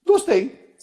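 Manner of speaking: high-pitched, pleased verdict; acted approval. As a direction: pop it out high, as instant liking. Voicing instant liking of someone.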